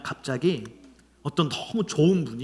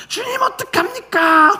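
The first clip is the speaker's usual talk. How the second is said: pleading prayer; 7 dB louder than usual. Retold or imitated. Imitating his anxious pleading prayer.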